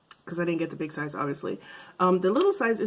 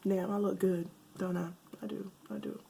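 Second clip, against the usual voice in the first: peacocking; 8 dB quieter than usual. Real, not acted. Admiring herself, self-satisfied.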